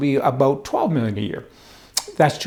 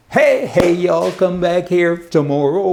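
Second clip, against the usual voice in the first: cheerful call-out; 2 semitones higher, slower than usual. Real, not acted. Signing off, calling to viewers.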